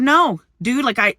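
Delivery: high, loud, sharp "No, dude"; snippy refusal. Retold or imitated. Turning down the soap seller, high and loud with attitude. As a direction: snap the refusal the way she didn't really say it. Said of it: "I didn't say it like that".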